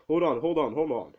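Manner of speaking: acted alarm, stopping a punch; urgent mock protest. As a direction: call out urgently to halt someone. Acted plea to halt a punch.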